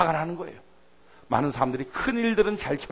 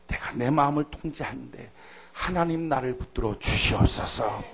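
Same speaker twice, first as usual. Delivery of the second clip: prayer. Acted. Acted prayer.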